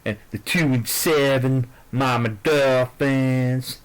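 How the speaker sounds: slow, drawn-out goofy voice, lightly done; silly put-on voice. Vlogger hamming up his picks in a slow goofy put-on voice. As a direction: stretch the team names in a mock dopey voice. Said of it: "Stop talking like an asshole".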